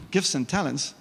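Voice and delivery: a light, put-on American accent, drawling the complaint; half-joking American accent with a casual yo. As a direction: slip into a hammed-up American voice for the excuse. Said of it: "I said it like American accent".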